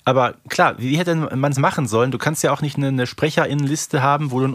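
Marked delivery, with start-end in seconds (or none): none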